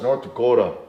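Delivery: full North Dakota local accent. Shown as a demonstration. Coach showing his own accent, North Dakota accent. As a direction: lean fully into North Dakota speech. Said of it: "So when I say North Dakota".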